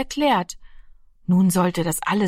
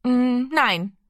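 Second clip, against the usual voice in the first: zögerndes Nein; 5 semitones higher than usual. A narrator's reading. Junge antwortet zögernd mutig.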